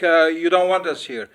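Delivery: usual speaking voice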